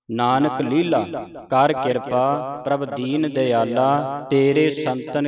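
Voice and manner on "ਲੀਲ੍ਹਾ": ਲੀਲਾ with an h-coloured second l, falling; heavy, aspirated l. Shown as a demonstration. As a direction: give ਲੀਲਾ weight, "leelha". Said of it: "ਇਸ ਤਰ੍ਹਾਂ ਕਰਕੇ ਬੋਲਣਾ".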